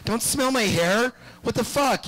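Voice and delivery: mocking a repulsed young woman; disgusted club girls. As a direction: squeal it like a grossed-out clubgoer. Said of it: "and they're like".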